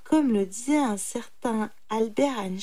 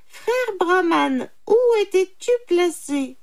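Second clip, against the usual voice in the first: inquiring jackal; 10 semitones higher, 6 dB louder than usual. A narrator's reading. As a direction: question him in a high animal voice. Jackal questions brahman. (chacal qui interroge, voix aiguë)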